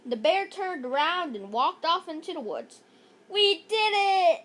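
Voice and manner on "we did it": higher, louder slow cheer; excited shout. Acted. Emily cheering as the bear leaves, excited shout. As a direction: cheer in triumph. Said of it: "Emily shouted excitedly".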